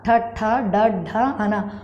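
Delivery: ఠ and ఢ with tongue tip curled up; retroflex sounds. Shown as a demonstration. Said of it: "నాలుక కొన పైకి ముడిచి పలికే".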